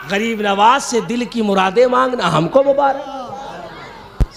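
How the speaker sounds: slow, measured delivery at normal pitch; settled declamation. Acted. Preacher claiming the saint's blessings for us, slow settled delivery. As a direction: bring it down and stretch it out. Punchline contrast, second half lowered.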